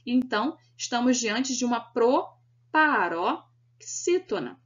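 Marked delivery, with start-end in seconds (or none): 1.8-4.6 "proparoxítona" broken into slow, separate chunks; syllable by syllable. Shown as a demonstration. Teacher naming the word class, "proparoxítona" slowly split into syllables. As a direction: spell out "proparoxítona" in spaced syllables for learners. Teacher sounds out the stress term.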